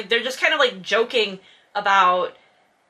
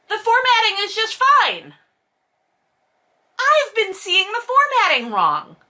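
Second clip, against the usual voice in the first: amazed discovery; 8 semitones higher than usual. Real, not acted. Excited discovery of formatting.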